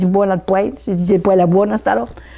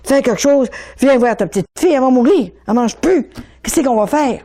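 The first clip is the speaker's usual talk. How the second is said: retold desperate plea, raised pitch; pleading cry; 3 semitones higher than usual. Father begging his dead wife to save their daughter, retold pleading cry. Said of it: "il criait".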